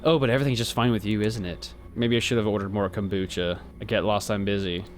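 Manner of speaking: solemn cultist leader. Acted. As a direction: intone it like a gloomy preacher of death. Reads cultist NPC dialogue.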